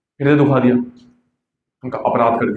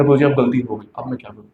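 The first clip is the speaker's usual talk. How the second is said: tearful plea; 5 semitones lower, 3 dB quieter than usual. Retold or imitated. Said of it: "आंखों से आंसू आने लगे".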